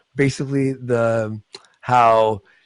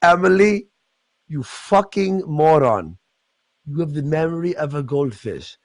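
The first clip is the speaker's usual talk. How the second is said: mock angry scold; 2 semitones higher than usual. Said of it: "and he's like".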